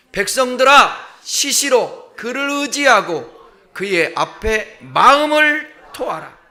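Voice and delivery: slow, loud, solemn reading aloud; slow scripture reading. Shown as a demonstration. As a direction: proclaim the verse slowly for all to follow. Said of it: "팔 절을 다 같이 읽어보겠습니다". (천천히 힘주어 성경 낭독)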